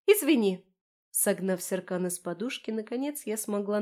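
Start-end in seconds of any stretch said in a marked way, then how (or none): 0.1-0.7 громкий крик, выше; крикни издалека с улицы; крикнуть. A narrator's reading. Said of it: "крикнуть с улицы". (Лера кричит с улицы)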